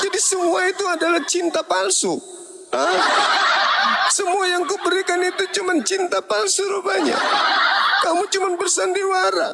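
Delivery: high, reproachful mother voice with laughter, rising to a shout; a mother crying out that his love was false; wounded mother. Acted. Mother to son who faked his love, high and reproachful.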